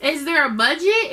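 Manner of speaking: high, bright mock of a chatty clerk; shop lady. Counter lady teasing Angela about Tony, high and gushing. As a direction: gush like a saleslady sizing up a budget. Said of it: "the lady at the counter was like".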